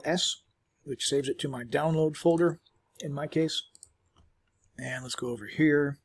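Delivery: talking while chewing a chew; words round a chewy bite; mouth full. Real, not acted. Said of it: "chewing on a calcium chew".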